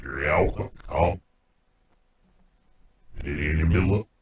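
reversed robotic alien gibberish; garbled backwards alien speech. Shown as a demonstration. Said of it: "Your own alien language and voice".

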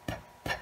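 P, p en petites explosions sourdes; son P isolé. Shown as a demonstration. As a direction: prononcer le son de P, pas le nom de la lettre. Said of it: "j'entends le p". (deux P brefs, sans voyelle)

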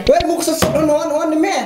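chuckling over the joke; laughing. Acted. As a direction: crack up at your own pun. Laughing at his own joke.

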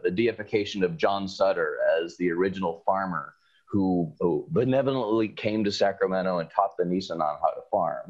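dry sarcastic tone. Retold or imitated. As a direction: say it with mock reverence. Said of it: "I'm being very sarcastic here".

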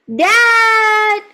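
high, drawn-out mock yell; yelled question. Teacher quizzes student on the yell, mock calling out. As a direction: call out for Dad in a high voice. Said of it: "Does he yell loudly".

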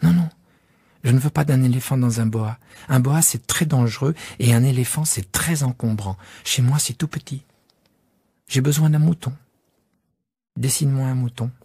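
put-on high, earnest child's voice; a small boy insisting he wants a sheep; young prince pleading for a drawing; little prince.

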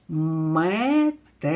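Метелик drawn out a little, each sound stretched; slow sounded-out word. Shown as a demonstration. Teacher to pupils starting a new word scheme, slow sounding out. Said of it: "Подивимось на другу схему".

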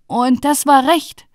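high, loud, slow retort; rising, defiant youngest brother; third brother. Acted. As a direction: throw it out high and slowly. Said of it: "sagte der dritte".

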